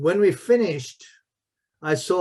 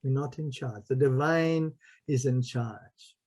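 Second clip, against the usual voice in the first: solemn hush; 3 semitones lower, 6 dB quieter than usual. Real, not acted. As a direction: lower the voice to make a sacred point. Solemn spiritual point.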